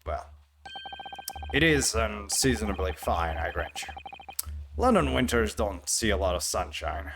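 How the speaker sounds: grudging English detective, low and dry; a hint of a gruff inspector conceding; lightly voiced inspector.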